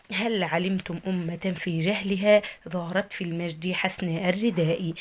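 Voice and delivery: slow, measured reading of verse; poem recital. Shown as a demonstration. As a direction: read the line of poetry slowly and evenly. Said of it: "اول بيت عندي بيقول". (إلقاء شعري بطيء)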